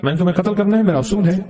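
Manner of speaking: quick, retold pressing demand; impatient demand. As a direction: hurry him along, lightly acted. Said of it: "تقاضا کر رہا کہ".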